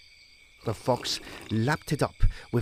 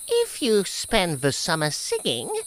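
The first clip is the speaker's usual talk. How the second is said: a touch higher, smug voice; mocking ants; 7 semitones higher, 4 dB louder than usual. Ants replying to the grasshopper, lightly smug. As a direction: set up the jab.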